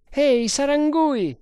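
high, loud hailing call; shouting. A narrator's reading. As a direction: call out to someone down below. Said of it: "gridò Bharata". (grido di richiamo, acuto e forte)

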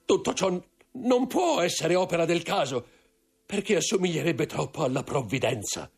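sfogo acuto e concitato; confessione angosciata. A narrator's reading. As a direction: incalza con terrore, la voce molto alta. Intendente sconvolto confessa l'assassinio. (sfogo angosciato, voce acuta)

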